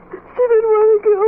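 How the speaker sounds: tearful. Acted. Guilty grieving friend.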